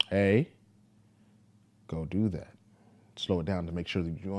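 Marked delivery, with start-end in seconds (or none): 0.1-2.5 a louder "Hey" then a firmer "go do that"; raised voice. Shown as a demonstration. Father showing his kid a step-up warning, raised voice. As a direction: lift the volume to sound a bit more serious. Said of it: "Elevate my voice".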